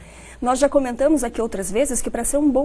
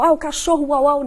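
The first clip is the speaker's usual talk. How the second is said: mock babyish talk to a child; 3 dB louder than usual. Parent mimicking babyish talk about the dog. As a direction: talk down like to a toddler. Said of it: "não é o pezinho".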